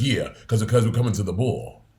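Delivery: lightly voiced ball commentator, rhythmic; a hint of ball commentator cadence; Father Omari. Podcaster imitating Father Omari for co-host, ball commentator style. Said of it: "talks like a traditional v".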